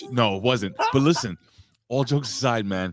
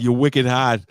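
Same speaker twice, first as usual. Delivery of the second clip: loud, imitated Boston exclamation; Boston accent; 3 semitones higher, 6 dB louder, slower than usual. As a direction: mimic a girlfriend's Boston slip. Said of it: "her Boston came out".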